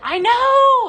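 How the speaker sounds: high, very loud delighted exclamation; thrilled, loud squeal of agreement; excited agreement. Real, not acted. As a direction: burst out in agreement, soaring high. Shares viewers' delight at light.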